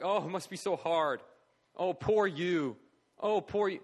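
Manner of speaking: loud, put-on sympathy without real tears; mock tearful pity. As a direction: gush mock pity at a child. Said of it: "sat there and just cried".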